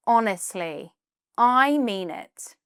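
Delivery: gently earnest, drawing out the insistence; slightly heartfelt. Shown as a demonstration. Teacher showing how to defend a compliment, slightly heartfelt. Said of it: "sound slightly more heartfelt".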